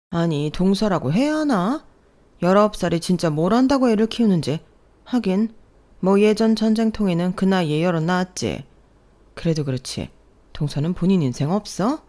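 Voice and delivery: lightly voiced mocking elder sister-in-law; a hint of scorn for the young bride; sneering sister-in-law. (비웃는 손윗동서 목소리)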